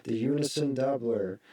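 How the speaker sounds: doubled voice effect. Shown as a demonstration. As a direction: voice doubled in unison. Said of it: "now you can already hear it".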